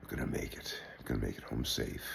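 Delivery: breathy hushed self-assurance, low; whispered inner hope; hopeful inner whisper. Retold or imitated. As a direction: mutter it to yourself as a prayer. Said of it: "for some reason I felt".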